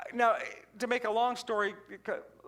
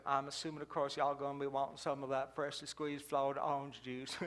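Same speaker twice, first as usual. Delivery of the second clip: ancient waitress; 8 semitones lower, 8 dB quieter than usual. Retold or imitated. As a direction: creak it out like a toothless old lady. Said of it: "she said".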